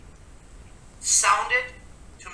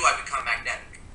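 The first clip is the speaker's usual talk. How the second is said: ordinary talk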